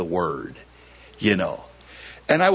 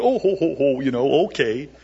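laughing reply. Retold or imitated. Old lady laughing back at the pastor, imitated chuckle. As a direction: laugh it off lightly. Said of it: "she looked at me and laughed".

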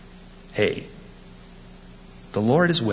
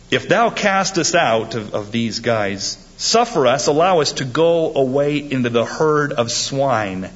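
begging demons; 2 semitones higher than usual. Acted. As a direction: plead like devils wanting out. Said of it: "the devils besought him".

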